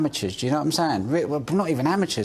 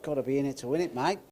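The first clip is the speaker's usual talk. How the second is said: put-on Aussie accent; 4 dB quieter, faster than usual. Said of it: "in a full Aussie accent".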